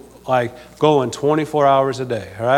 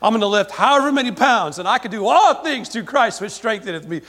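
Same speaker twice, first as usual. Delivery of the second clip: boastful weightlifter; 5 semitones higher than usual. Retold or imitated. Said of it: "a champion weightlifter and they say".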